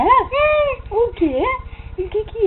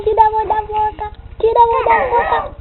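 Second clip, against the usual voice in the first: muffled, fast, slightly higher; hand over mouth; 4 semitones higher, faster than usual. Pretend.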